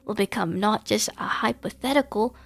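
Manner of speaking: high, flat machine boss praising a worker; robotic manager. Acted. Robot manager praises the cashier, high mechanical voice. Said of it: "I am feeling an emotion your kind describes as".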